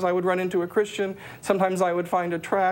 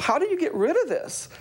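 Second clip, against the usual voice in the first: much higher, worried asking; anxious question; 9 semitones higher than usual. Retold or imitated. Asking people about the weight, a high worried question. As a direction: ask for help in distress. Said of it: "And I asked people".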